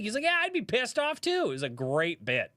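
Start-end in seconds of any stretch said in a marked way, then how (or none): 0.2-1.4 higher, louder excited Australian khaki-shirt showman; hammed-up Australian wildlife host, higher pitched; Steve Irwin impression. Streamer retells an Australian comic's Steve Irwin bit, higher, hammed-up Australian. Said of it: "Steve Irwin bit".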